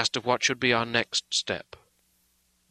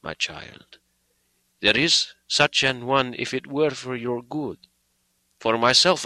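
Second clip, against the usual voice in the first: solemn; 2 semitones higher than usual. Acted. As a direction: speak solemnly, hand on her head. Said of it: "as he said solemnly".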